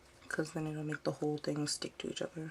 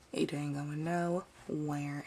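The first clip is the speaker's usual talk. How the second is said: drawn out slowly and a bit lower; slow emphatic repeat; 3 semitones lower, much slower than usual. Shown as a demonstration. Repeating it to viewers about the glued fabric, slow and emphatic. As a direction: stretch every word to make the point.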